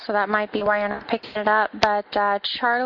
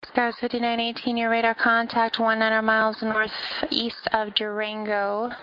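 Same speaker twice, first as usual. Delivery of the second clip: air traffic control radio. Acted. Controller reading clearances on frequency.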